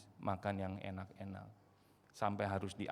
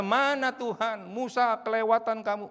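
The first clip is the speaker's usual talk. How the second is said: loud, high accusing shout; yelling complaint; 11 semitones higher, 10 dB louder than usual. Retold or imitated. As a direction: yell at Moses that he went too far. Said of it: "teriak-teriak seperti orang Israel".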